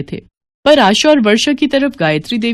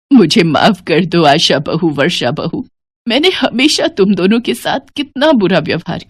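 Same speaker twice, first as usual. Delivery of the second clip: tearful. Acted. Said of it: "Gayatri Devi फूट-फूट कर रो पड़ती हैं".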